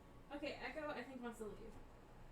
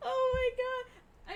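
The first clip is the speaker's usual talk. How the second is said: amazed; 12 semitones higher, 6 dB louder, much slower than usual. Real, not acted. Amazed by cat leaping.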